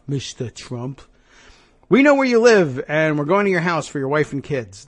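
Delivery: lightly voiced New York heavy, sweet then menacing; a hint of a New York mobster making a threat; mock New York accent. The caller threatens the lawyer, mild mock New York accent. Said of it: "a man with a thick New York accent".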